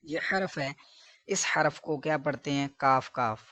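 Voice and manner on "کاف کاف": کاف، کاف identical, short "kaaf, kaaf"; plain unstretched کاف, repeated alike; both letters alike. Shown as a demonstration. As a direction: show the careless reading of کاف twice with the same k. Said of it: "دونوں کو بالکل ایک جیسا".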